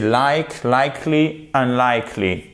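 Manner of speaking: unlikely built up from a stressed "like". Shown as a demonstration. Teacher showing where the accent is, stress on LIKE. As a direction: build like, likely, unlikely on the LIKE beat. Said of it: "accent ici".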